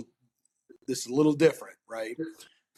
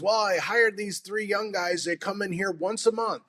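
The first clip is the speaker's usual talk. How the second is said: mock old man; 7 semitones higher than usual. Retold old store owner quote.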